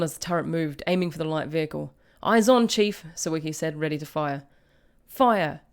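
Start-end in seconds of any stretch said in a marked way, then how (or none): 2.2-3.0 loud, high crew report; raised voice in battle; called out. A narrator's reading. Gunner calls out to commander. 5.1-5.6 loud, high falling shout; battle command. A narrator's reading. Commander gives firing order.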